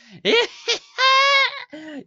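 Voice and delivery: high wicked cackle; crone cackle. Acted. Crone cackles at the fleeing mother. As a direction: cackle like an old hag. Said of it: "the old crone cackles".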